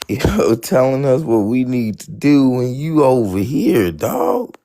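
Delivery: confronting quote. Retold or imitated. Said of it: "I'm just be like".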